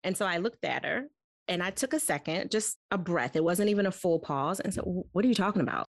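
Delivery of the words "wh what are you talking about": quick, sassy what are you talking about; Nikita attitude. Retold or imitated. Mom snapping back at her daughter, sassy and quick. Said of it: "With all kinds of Nikita attitude".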